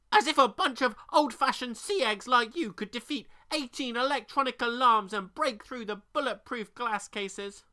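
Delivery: high, loud scornful bird voice; croaking raven. A narrator's reading. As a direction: sneer like a smug raven. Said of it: "the raven croaked".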